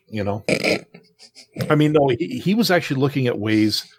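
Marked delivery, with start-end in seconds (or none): none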